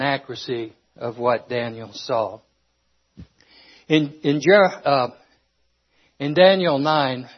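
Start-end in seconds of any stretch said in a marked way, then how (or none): 3.9-7.3 short of breath, a bit winded. Real, not acted. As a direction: speak while winded and breathless. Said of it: "for some reason I am out of breath".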